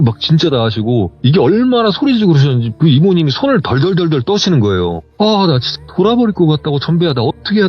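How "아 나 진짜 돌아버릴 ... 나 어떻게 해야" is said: mild mock yell, raised pitch; retold yelling. Aunt venting at the teller, mild retold yelling. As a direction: imitate someone at the end of their rope. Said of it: "막 소리 지르는데".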